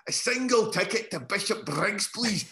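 put-on high, slow, overdone posh English accent; a schoolboy overdoing an English accent to fit in; mock-posh English boy asking for a bus ticket. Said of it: "my wee English accent".

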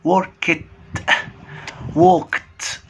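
وركت and ووكت end in a hard t. Shown as a demonstration. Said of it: "الاي دي تنطق تي".

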